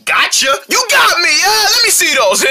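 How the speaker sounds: high, exclaimed play voices; hammed-up commercial excitement; excited ad kids. Kids play with binoculars in advert, high excited voices.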